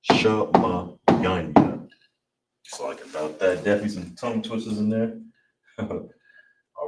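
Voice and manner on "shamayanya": shamayanya drawn out syllable by syllable, very slow; teacher stretching shamayanya out slowly; slow careful demo. Shown as a demonstration. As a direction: spell out shamayanya slowly for learners, sha-ma-ya-nya. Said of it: "So all together".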